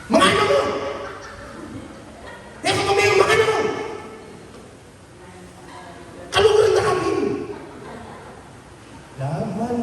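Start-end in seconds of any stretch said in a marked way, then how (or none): 0.1-7.1 mock-sweet, much higher pitched; a hint of a doting partner; lightly played, high and cooing; sweet lover's voice. Shown as a demonstration. Mimics sweet-voiced talk.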